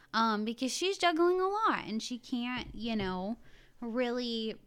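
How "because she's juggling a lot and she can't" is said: normal talking voice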